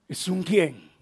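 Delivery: low, soft refrain; hushed. Real, not acted. Preacher to the church on who it is, hushed. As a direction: let it drop to a hush. Repeats refrain softly after loud no.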